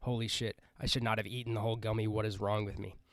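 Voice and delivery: low, rapid panicked self-talk; retold panic. Stoned person checking red eyes in the mirror, muted panic. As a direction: run the worries together, low and quick.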